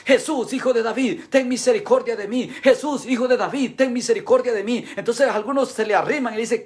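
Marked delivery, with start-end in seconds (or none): 0.1-4.9 imitated pleading shout, raised in pitch; crying out for mercy. Blind beggar calling to Jesus through the crowd, crying out. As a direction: call out urgently like a blind beggar. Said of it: "él empieza a gritar".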